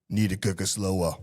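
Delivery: lightly put-on Austrian accent; robot barbecue coach with a hint of Austrian; Arnold Schwarzenegger. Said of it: "Austrian Arnold Schwarzenegger voice".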